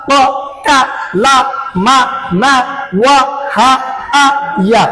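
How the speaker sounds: "আ, বা, পা" chanted as separate syllables, a pause after each; letter pronunciation drill. Shown as a demonstration. Teacher has pupils memorise the letter sounds, "আ, বা, পা" as separate drilled syllables. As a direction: recite "আ, বা, পা" through to "ইয়া" one distinct syllable at a time. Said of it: "উচ্চারণ কি হয়েছে".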